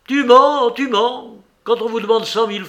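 «Tu mens» lancé bien plus haut et plus fort; jette-lui le «mens» à la figure; accusation criée. A narrator's reading. («Tu mens» crié, aigu et fort)

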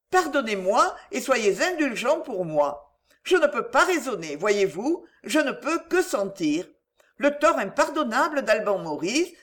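lightly voiced young woman, pitched a little up; confessing hurt pride to an old friend; contrite young heroine. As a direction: beg indulgence, with understated feeling. Ashamed heroine confides in doctor.

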